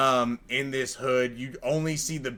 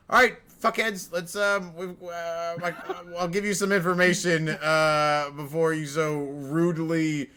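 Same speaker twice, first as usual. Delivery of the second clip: Pip the imp; 3 semitones higher, 3 dB louder than usual. Acted. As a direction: boss them around, irritated. GM voices Pip bossing the party.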